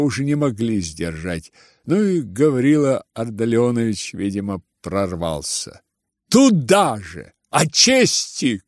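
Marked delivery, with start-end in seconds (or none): 6.3-8.6 slow, spiteful jeer; spiteful shout. Acted. Ganya to his father, spiteful jeer. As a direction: throw the word back with malice. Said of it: "крикнул он злобно".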